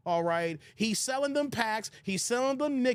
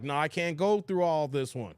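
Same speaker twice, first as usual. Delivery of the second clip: lower, dismissive refusal; 6 semitones lower than usual. Retold or imitated. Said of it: "I had to pull an audible, like".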